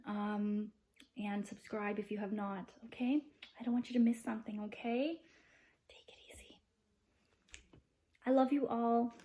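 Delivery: lightly voiced princess, even-pitched and composed; positivity princess. Princess thanking the vlogger's viewers, lightly put-on princess voice. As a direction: play a princess in an even, measured tone.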